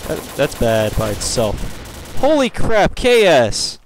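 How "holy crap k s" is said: high-pitched startled protest; annoyed exclamation. Real, not acted. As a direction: cry out in annoyance at the game. Gamer exclaims at a kill steal.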